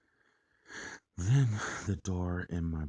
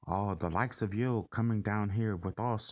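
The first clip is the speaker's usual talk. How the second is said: put-on Irish-sounding accent; 4 semitones higher, 4 dB louder than usual. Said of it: "I can hear him just saying".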